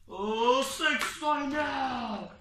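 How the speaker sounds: slow, stretched shouted exclamation; amazed shout. Real, not acted. Big move called live.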